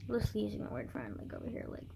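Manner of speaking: half-whispered, low side comment; very soft, under the breath; muttered aside. Real, not acted. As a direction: drop right down for an aside. Muttered aside about the so-called friend.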